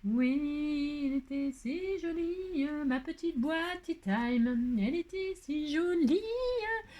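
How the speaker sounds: high, slow, lingering over the words; doting sing-song. Real, not acted. Crafter admiring her own tea time box in a high, slow sing-song.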